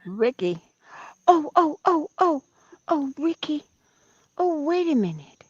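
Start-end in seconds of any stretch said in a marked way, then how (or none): 1.3-5.4 high squeals of delight at the dog; excited squeals to the dog. Real, not acted. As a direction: gush with joy over the pet. Excited greeting of dog Ricky.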